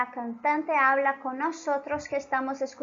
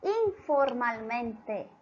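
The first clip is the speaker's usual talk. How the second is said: slow emphasis; 2 semitones lower, much slower than usual. Shown as a demonstration. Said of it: "Ella nos habla".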